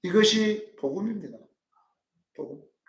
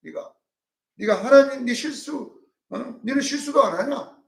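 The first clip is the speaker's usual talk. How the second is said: higher mock badgering; threatening; 6 semitones higher than usual. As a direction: pester Job with rapid accusations. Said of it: "막 이렇게 막 협박을".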